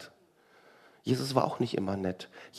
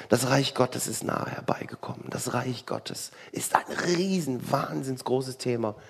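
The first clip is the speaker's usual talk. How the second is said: whisper. Real, not acted. Preacher whispers to the congregation about God's kingdom. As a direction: whisper it like a secret.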